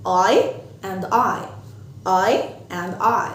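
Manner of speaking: "I and I" stretched very slowly; slow demo. Shown as a demonstration. Teacher modelling eye and I for kids. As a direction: space out "I and I" slowly. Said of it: "أنا".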